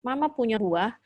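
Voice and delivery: composed mother's coaxing; calm offer. Retold or imitated. Mother offering fruit to upset child, calm. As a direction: calmly offer a distraction. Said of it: "saya harus tenang, coba tenang".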